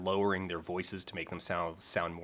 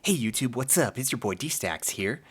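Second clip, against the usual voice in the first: YouTuber voice; 3 semitones higher than usual. Retold or imitated. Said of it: "doing the D-Stacks thing".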